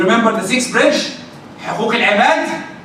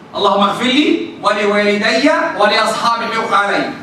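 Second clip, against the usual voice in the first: 1 recited dua; much faster than usual. Shown as a demonstration.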